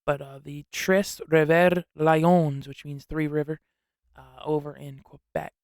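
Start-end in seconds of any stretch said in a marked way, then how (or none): 0.7-2.7 slow, drawn-out French pronunciation; French accent. Shown as a demonstration. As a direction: put on a French accent for the team name. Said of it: "that's my French accent".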